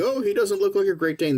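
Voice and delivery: whiny complainer. Retold or imitated. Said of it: "Everyone's, like, complaining".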